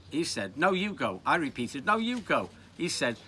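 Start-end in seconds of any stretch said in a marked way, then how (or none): 0.6-1.2 put-on raised-pitch boyish protest; acted squabble. Boys argue over who goes. 1.8-2.5 put-on raised-pitch boyish protest; acted squabble. Boys argue over who goes.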